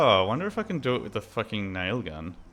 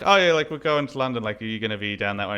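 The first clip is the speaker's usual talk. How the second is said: mock American; 4 dB louder, faster than usual. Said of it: "they asked something like".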